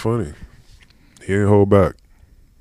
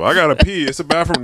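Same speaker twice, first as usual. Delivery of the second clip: retold in a raised voice; high voiced quote; 9 semitones higher than usual. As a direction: quote someone in a higher pitch.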